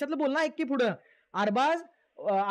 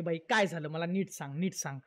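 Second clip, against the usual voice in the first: lower, gentle male voice asking what happened; lightly voiced concerned guy, much lower pitch; Vaibhav; 8 semitones lower, 3 dB quieter than usual. Vaibhav comes over to ask crying Arya, in a lower gentle voice. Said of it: "वैभ्या आला बोलायला".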